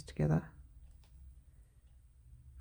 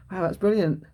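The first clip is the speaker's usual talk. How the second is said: dry sarcastic "brilliant"; 3 semitones higher, 8 dB louder than usual. Shown as a demonstration. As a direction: say "brilliant" sarcastically, loud and falling. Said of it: "You can use it in a sarcastic way".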